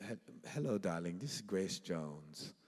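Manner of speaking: drawn-out old-Hollywood diva affectation; a singer. Retold or imitated. Star introducing herself on the phone, affected diva. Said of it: "sounds like a cross between Marlene Dietrich".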